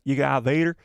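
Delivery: light cartoon tow truck twang; Tow Mater impression. Shown as a demonstration. Streamer repeating the line on purpose, a light Tow Mater voice. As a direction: redo it as the rusty tow truck. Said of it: "I sounded like Tow Mater".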